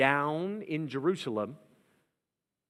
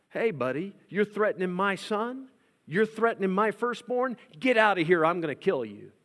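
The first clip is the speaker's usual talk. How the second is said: angry Pharaoh; 6 semitones higher, 4 dB louder than usual. Acted. Pharaoh threatening Moses.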